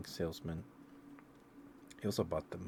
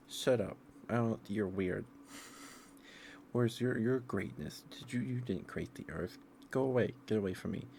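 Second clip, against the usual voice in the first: mock indignant Moses; 4 semitones higher than usual. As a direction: play Moses telling Satan to get lost, raised voice. Moses rebuffs Satan, retold.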